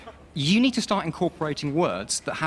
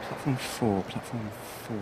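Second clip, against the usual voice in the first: echoed announcement; 4 semitones lower, 7 dB quieter than usual. Acted. Echoing the station announcement.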